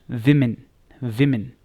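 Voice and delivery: विमेन as "WIM-in", punched and falling; correct pronunciation. Shown as a demonstration. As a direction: say विमेन emphatically with two short i sounds. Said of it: "correct pronunciation है विमेन". (विमेन पर ज़ोर, "विमिन")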